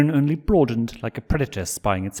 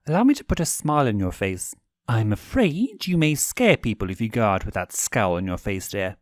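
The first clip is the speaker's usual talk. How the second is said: higher, playful teasing voice; teasing prince; 4 semitones higher than usual. Acted. Stolas teasing Blitz about his scowl, high and playful. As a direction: tease him sweetly.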